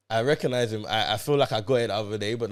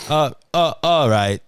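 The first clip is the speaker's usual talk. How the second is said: Dalek voice; 5 dB louder than usual. Pretend. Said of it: "Man's doing Dalek behavior".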